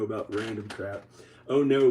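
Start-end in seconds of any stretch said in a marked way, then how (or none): 1.5-1.9 quoted exclamation. Retold or imitated. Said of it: "was when the baby almost died".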